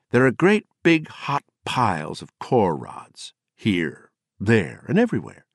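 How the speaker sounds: a lightly voiced drunk storyteller scaring a child; wild-grinned menace. Gardner grinning as he frightens Ted's wife with core rods.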